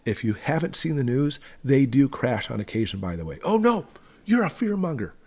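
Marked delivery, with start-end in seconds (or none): 3.4-5.1 high, sneering mock accusation; mocking accuser. Mocking the critics in a high whiny voice. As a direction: mimic a whiny critic, pitched way up.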